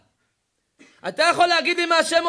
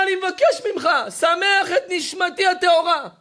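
raised, urgent plea from the dead son; pleading cry; 3 semitones higher than usual. Acted. Dead son begs his father in a dream, raised urgent plea. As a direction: call out begging with full force.

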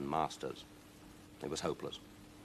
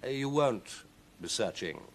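slow, smug smile in the voice; smiling; 4 semitones higher than usual. Acted. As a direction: say it slowly through a smile. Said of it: "smiled Victor".

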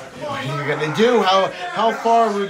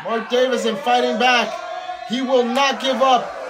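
excited shout; 7 semitones higher than usual. Real, not acted. Hyping comeback on commentary.

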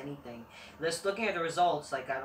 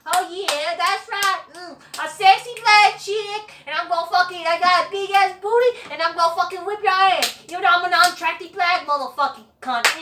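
hammed-up mock wrestler voice, much higher and louder; mock Bianca Belair impression; 11 dB louder than usual. Vlogger mocking a wrestler's entrance boasts, high, loud and hammed-up. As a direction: swagger through it in a high, loud, put-on voice. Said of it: "After Bianca".

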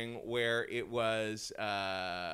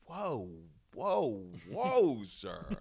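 tag; 3 semitones higher, much slower than usual. Acted. Waiter calming an angry customer.

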